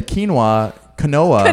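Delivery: quinoa said slowly, the second one as kuh-NO-uh; mom's mispronunciation. Retold or imitated. Son slowly imitating his mom saying quinoa. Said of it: "she calls".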